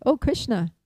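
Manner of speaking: lightly acted concerned call, lifted at first. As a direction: call out to someone in distress. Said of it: "she calls out".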